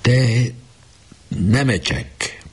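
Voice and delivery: slow, halting, trembling call of a name; fighting back tears, drawn out slowly. A narrator's reading. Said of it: "Weiss remegő hangon kezdte". (remegő hangon, lassan)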